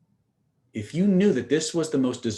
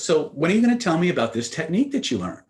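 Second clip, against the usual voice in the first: louder, higher imitation of an insistent girlfriend; insistent prodding; 5 semitones higher, 5 dB louder than usual. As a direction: press for the overdue answer, mock-impatient. Retold girlfriend asks a second time.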